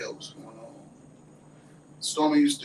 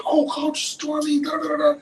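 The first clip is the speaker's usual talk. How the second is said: gushing fan imitation; 13 semitones higher, 8 dB louder than usual. Fans run up to the coach crying, mock gushing. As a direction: mimic a fan wailing in awe.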